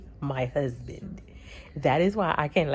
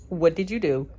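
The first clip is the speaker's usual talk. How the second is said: mock-stern doctor, a bit louder and higher; mad doctor, retold; 4 semitones higher, 5 dB louder than usual. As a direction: imitate a cross doctor confronting a patient. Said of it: "I knew he was gonna be mad".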